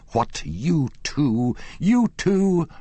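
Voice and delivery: high, rising to a loud squawk; astonished. Acted. Manager startled by the whispered news.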